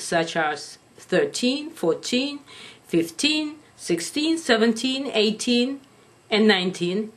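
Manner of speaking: put-on TEEN stressed in "thirteen" to "nineteen"; teen numbers. Shown as a demonstration. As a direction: lift the TEEN of each number. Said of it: "These numbers are in the teens".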